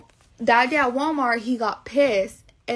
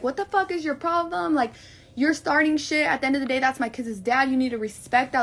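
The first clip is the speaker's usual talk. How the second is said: angry; 3 semitones higher than usual. Retold or imitated. Arguing with Alex in retold fight.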